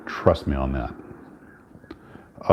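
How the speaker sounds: very slow conspiratorial whisper; slow whispered insider tip. Real, not acted. Secret tip from Uncle Max.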